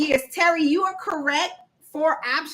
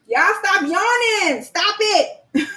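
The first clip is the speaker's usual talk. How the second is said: playful scolding through a laugh; laughing tease; 5 semitones higher, 5 dB louder, much slower than usual. Real, not acted. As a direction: tease them while laughing. Teasing the yawning chat.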